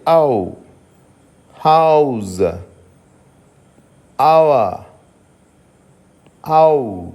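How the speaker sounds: "హౌస్" gliding a to u; au diphthong demo. Shown as a demonstration. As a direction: stretch "హౌస్" from a into u. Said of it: "దీన్ని ఏమని పలకాలి". ("హౌస్" ను అ నుండి ఉ కి జారుతూ పలకండి)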